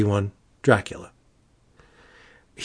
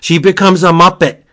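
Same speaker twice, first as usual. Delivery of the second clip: higher, emphatic repeat in amazement; excited reveal; 4 semitones higher, 4 dB louder than usual. Real, not acted. Reviewer spoiling the Sesame Street segment, excited amazement. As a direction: lift the pitch and hit each word with delight.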